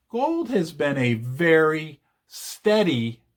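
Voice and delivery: steady drawn out and leaned on, slow; slow, weighty stress on steady. Shown as a demonstration. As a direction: linger on the word steady. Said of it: "I emphasize the word steady".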